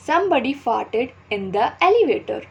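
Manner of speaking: slow, carefully spaced teaching read; slow example read. Shown as a demonstration. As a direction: read the example sentence slowly for learners. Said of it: "Fart means पाद". (धीमे-धीमे उदाहरण पढ़ना)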